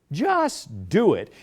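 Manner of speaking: Just do it, said very slow and falling. Shown as a demonstration. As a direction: lets the slogan land slowly. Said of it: "Here's a spur line".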